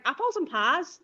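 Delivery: half-hearted Cockney on apples and pears; attempted London accent. Shown as a demonstration. Liverpool speaker showing another dialect, attempted London accent. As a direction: have a rough go at a London accent. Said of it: "the accent".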